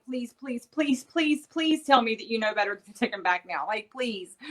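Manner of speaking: retold begging, rising to an urgent plea; pleading with daughter. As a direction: beg her, please after please, building. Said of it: "I'm like".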